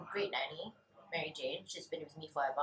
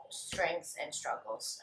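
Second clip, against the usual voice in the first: slow musing; 2 semitones lower, 4 dB quieter, much slower than usual. Shown as a demonstration. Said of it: "I really have to think about this one".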